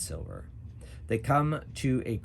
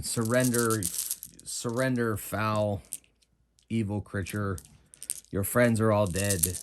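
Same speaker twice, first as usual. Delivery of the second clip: mild mock scream, louder than usual; raised-voice order to a foe; screamed demand; 5 dB louder than usual. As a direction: call out a battle demand without truly screaming. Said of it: "Sathena is screaming at the creature".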